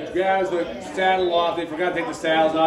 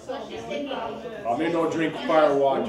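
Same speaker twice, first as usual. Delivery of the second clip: Tonto voice; slower than usual. Acted. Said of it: "Tonto says".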